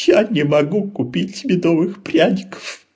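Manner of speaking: high, loud hammed-up blubbering; fake crying. Laban faking tears to the bunnies, high hammed-up sobbing. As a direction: sob theatrically, pretending to cry. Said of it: "Лабан притворился, что плачет".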